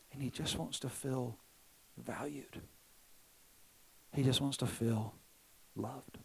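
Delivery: slow and soft, long pauses; hushed, gentle revelation. Retold or imitated. Holy Spirit explaining a son's fear to his father, hushed and slow. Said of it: "kinda whispered in my ear".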